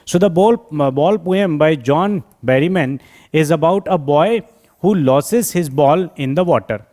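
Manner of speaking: slow, evenly spaced read-out; slow dictation. Acted. Teacher giving students a poem summary, slow dictation. Reads summary aloud slowly.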